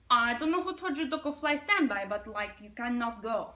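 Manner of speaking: put-on Russian accent. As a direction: airline clerk with a Russian accent. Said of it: "there's this Russian lady".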